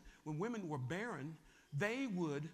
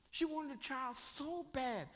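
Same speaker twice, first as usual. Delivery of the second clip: higher and slow, drawn out; slow longing; 6 semitones higher, slower than usual. Shown as a demonstration. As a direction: stretch every word with longing. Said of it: "This is how bad this woman wanted a baby".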